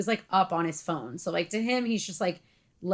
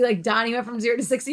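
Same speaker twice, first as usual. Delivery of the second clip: usual speaking voice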